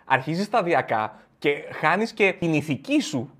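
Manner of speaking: usual speaking voice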